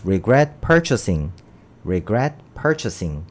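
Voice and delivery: regret purchasing said very slowly, stress on regret; slow model pronunciation. Shown as a demonstration. Teacher drills regret purchasing for students, very slow. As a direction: spell out regret purchasing syllable by syllable. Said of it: "이렇게 발음을 해야겠죠".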